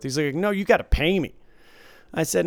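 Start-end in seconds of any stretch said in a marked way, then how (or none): 0.3-1.3 higher, louder mock protest; insistent demand. Dealer acting out a player demanding payment, insistent. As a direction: imitate a player who won't let it go.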